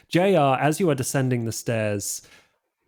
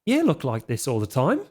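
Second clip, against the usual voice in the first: high, fast, fussy mummy complaining about his skin; a vain mummy fretting over moisturizer, high and quick; 8 semitones higher, faster than usual. Acted. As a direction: whine about dry skin in a high rush. GM voices mummy Bruce.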